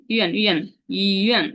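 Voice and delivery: ইউএন said thin and narrow; thin yuan. Shown as a demonstration. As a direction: keep ইউএন narrow and falling. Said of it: "একটু চিকন করে বলতে হবে". (ইউএন চিকন করে)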